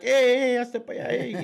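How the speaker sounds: high, loud "hey, hey" warning; calling out. Retold or imitated. Guy in line shouting at the line-cutter, loud high call. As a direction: stop the guy cutting in line.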